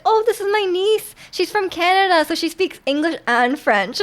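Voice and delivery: hint of an uncle showing off his niece; proudly introducing uncle. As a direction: imitate an uncle's eager introduction. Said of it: "he introduced me to his coworkers".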